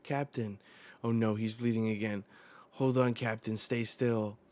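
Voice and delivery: mildly panicked read-aloud; alarmed. Acted. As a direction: voice a worried crew trying to steady their captain. Crew alarmed at bleeding captain.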